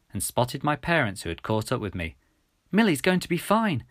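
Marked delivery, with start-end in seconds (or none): 2.7-3.9 high, beaming announcement; delighted, lifted pitch; huge smile. A narrator's reading. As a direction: share good news with a smile in the voice. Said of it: "I said with a huge smile".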